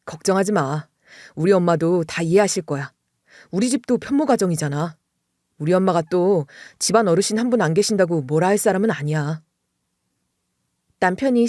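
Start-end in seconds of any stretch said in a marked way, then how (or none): 0.1-9.4 lower, gentle husband's voice; a lightly voiced husband calming her down; reassuring husband. Husband reassuring his bride about his mother, low and gentle. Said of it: "저를 이렇게 안심시켜주는 거예요".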